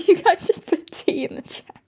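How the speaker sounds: delighted breathy whisper. Real, not acted. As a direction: whisper it with glee.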